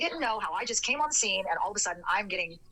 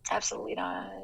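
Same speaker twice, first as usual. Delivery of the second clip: whispered refusal. Real, not acted.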